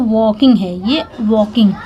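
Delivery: वॉकिंग said with a silent l, wo-king; correct pronunciation. Shown as a demonstration. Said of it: "अब इसको सही पढ़िए".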